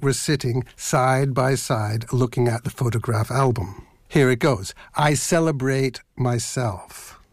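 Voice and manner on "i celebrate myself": slow, measured poetry reading; poem reading. Acted. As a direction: read it like a poem, unhurried. Poem line read slowly.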